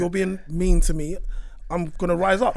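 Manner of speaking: loud, slowed-down indignant retort; mock anger. Man acting out rising up at an insult, mock angry. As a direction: push it out firmly, acting out anger. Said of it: "we would go to the anger".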